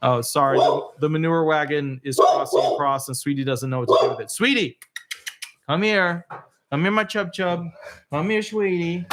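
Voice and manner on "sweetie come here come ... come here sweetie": coaxing the dog. Real, not acted. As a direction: coax her over sweetly. Calling the scared dog.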